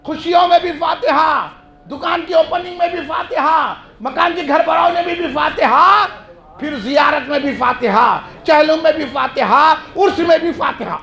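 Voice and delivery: rhythmic, rallying sermon chant; preaching litany. Real, not acted. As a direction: build a list, landing each refrain.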